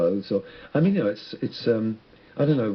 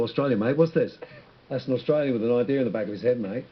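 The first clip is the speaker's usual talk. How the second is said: lightly put-on Australian accent. Shown as a demonstration. Showing the interviewer he likes accents, mock Australian accent. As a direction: slip into a jokey Australian accent. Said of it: "yeah, I like accents".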